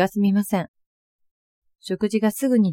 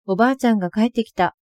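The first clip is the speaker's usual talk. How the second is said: happy cry; 3 semitones higher, faster than usual. Retold or imitated. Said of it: "と喜んでいました".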